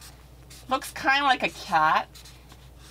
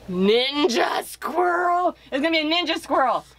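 delighted exclamation, a bit higher; excited; 5 semitones higher than usual. Real, not acted. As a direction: announce the new idea with glee. Excited discovery of new character.

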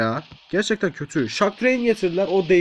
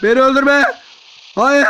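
loud, higher cry for mercy; mock panicked plea; 9 semitones higher, 6 dB louder than usual. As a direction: beg loudly in pretend terror. Pleading not to be killed.

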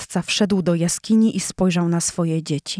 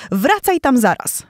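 higher, louder furious order; roaring lioness; 6 semitones higher, 3 dB louder than usual. Acted. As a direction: send him back at once. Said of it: "ryczała".

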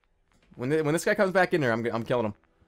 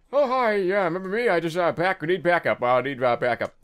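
pretending to be the disguise; 3 semitones higher, 4 dB louder than usual. Killer walking out as this guy, nervous bluffing. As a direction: bluff your way past, flustered. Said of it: "I'm gonna walk out as this guy".

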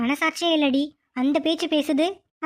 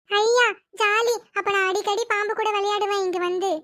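put-on child's delighted cheer; 4 semitones higher than usual. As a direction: stretch the joy out like a thrilled kid. Child cheers, snake may stay.

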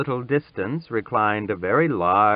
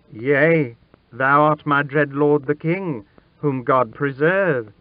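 lightly voiced boy, higher and louder; humble boy; 6 semitones higher, 4 dB louder than usual. A narrator's reading. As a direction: answer your sovereign in awe. Frightened boy answers the king.

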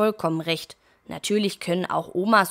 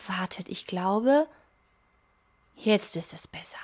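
hushed whisper; 3 dB quieter than usual. Acted. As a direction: breathe it out softly, relieved. Hiccups stop, hushed relief.

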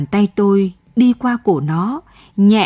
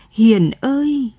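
a drawn-out, distant-sounding call of Hiền; slow ghostly call; 3 semitones higher, slower than usual. Acted. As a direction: call the name slowly as if from far away. Ghostly sister calls his name. (tiếng gọi xa xăm, kéo dài chậm rãi)

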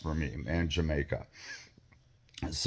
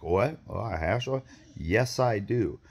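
higher, slower, eager "oh, hash oil? yes, I do"; mock excited delight; 5 semitones higher, slower than usual. Narrator retelling a dealer's offer, mock delight. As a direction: play up the sudden eager interest.

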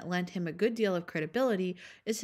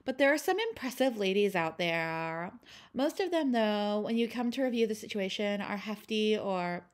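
put-on Valley Girl voice; 2 semitones higher than usual. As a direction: read it like a bored Valley Girl. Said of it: "I will be reading these quotes in a Valley Girl voice".

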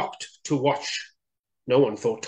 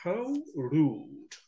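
indignant thought; 4 semitones higher, 7 dB quieter than usual. Acted. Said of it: "thought Tortoise".

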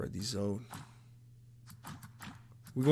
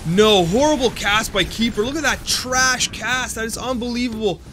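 frustrated outburst; 4 semitones higher, 3 dB louder than usual. Real, not acted. Streamer reacting to bad cast.

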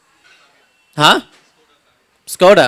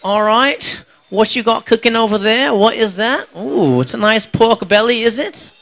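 Aussie TV judge; 4 semitones higher than usual. Retold or imitated. MasterChef judge seducing the cook with pork belly, higher and lingering. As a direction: savour each word like a flirty TV chef. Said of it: "They're like".

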